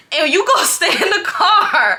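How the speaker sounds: high, loud mock command breaking into laughter; hammed-up yelled order. Boyfriend ordering her to wait outside, mock yelling. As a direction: yell the order in exaggerated imitation.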